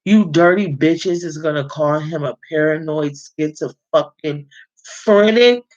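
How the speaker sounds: rising fury at the doctors; outraged rant. Real, not acted. Cursing the doctors who called him schizophrenic, furious.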